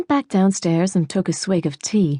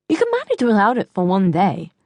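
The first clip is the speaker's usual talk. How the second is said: swollen tongue. Acted. Mother telling Geoffrey to manage without banjo, swollen-tongued. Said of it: "your tongue is swollen".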